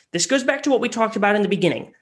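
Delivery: ordinary delivery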